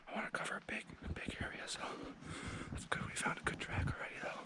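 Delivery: whispering with heavy breathing; breathless from hiking uphill. Real, not acted. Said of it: "Sorry for the heavy breathing".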